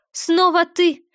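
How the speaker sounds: sharp annoyed outburst; irritated. A narrator's reading. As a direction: snap it out, fed up. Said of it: "раздражённо проговорила она".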